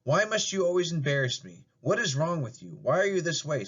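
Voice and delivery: mother scolds her daughter, fed up; scolding. Acted. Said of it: "scolds Marilyn".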